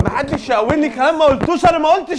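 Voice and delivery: high-pitched agitated protest; heated denial. Real, not acted. Heated denial amid the quarrel.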